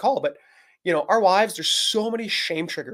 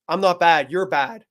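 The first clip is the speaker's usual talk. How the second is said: mock self-righteous blame; 5 dB louder, slower than usual. Husband turning blame on his wife, mock righteous. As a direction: push the blame back, playing righteous. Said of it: "I can't be righteous and be like".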